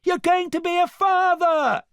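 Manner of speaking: high, loud news; crying out. A narrator's reading. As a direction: shout it after the ship. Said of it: "cried Fiona".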